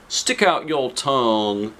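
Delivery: slow, calm instruction; a doctor at a checkup; lightly voiced doctor.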